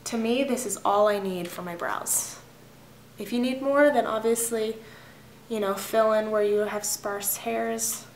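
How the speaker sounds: talking while chewing gum; words around a wad of gum. Real, not acted. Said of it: "I'm sorry, I'm chewing gum".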